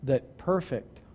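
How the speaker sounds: low, soft, with long pauses; hushed solemnity. Real, not acted. Preacher dwelling on Christ's sacrifice before the congregation, hushed and solemn. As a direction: let each phrase sink in, quiet and weighty.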